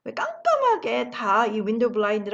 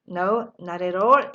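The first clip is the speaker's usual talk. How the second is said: very slow, drawn-out reply; slow model answer; 3 semitones lower, 4 dB louder, much slower than usual. Shown as a demonstration. Teacher modelling the answer very slowly. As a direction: stretch each word for learners. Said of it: "이라고 답을 하시면 됩니다".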